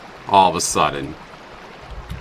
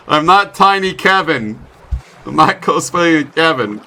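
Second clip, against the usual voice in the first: indignant denial; 6 semitones higher, 3 dB louder than usual. Real, not acted.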